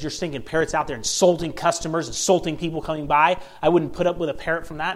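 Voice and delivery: acted scolding with a touch of outrage; mock riot act. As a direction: rattle off an indignant customer's tirade. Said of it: "she's just reading him the riot act".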